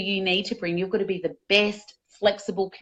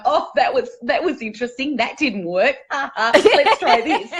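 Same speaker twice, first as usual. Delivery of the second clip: curious self-talk; 3 semitones higher, 5 dB louder than usual. Acted. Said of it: "Or you going".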